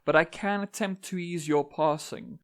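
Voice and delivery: measured, solemn recitation with deliberate pauses; stately dramatic verse reading; poem reading. Acted. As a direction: recite it as an otherworldly speaker addressing humans. Reads own poem aloud.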